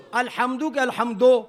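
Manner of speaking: الحمدو ending in a Punjabi o; Punjabi-style الحمدو. Shown as a demonstration. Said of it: "دو میں کیا غلطی ہوئی". (پنجابی لہجے میں الحمدو)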